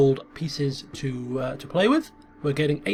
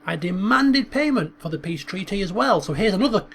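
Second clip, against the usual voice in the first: boastful commander, louder and higher; proud general reporting; 3 semitones higher, 3 dB louder than usual. Acted. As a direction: sell the victory to the king. Senrud reports to the High King.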